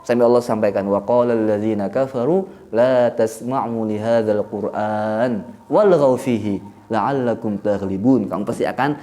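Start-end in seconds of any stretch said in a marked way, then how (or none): 0.9-8.3 slow, low verse recitation; Quran recitation. Acted. Quotes a Quran verse aloud.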